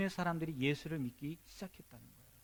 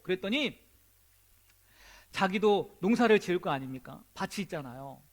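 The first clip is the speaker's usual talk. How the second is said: ordinary delivery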